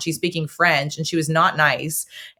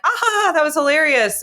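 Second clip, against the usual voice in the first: hilarity; 9 semitones higher than usual. Retold or imitated. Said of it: "we would have been like".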